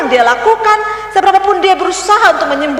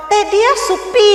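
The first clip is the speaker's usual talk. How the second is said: higher Rote accent, starting on a clear Te; a lighter Rote take of the same phrase in Rote accent; 5 semitones higher than usual. Shown as a demonstration. Preacher giving a second Rote example to the congregation, Rote accent. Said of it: "seperti gini".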